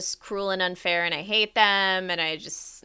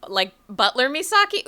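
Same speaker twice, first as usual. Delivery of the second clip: normal talking voice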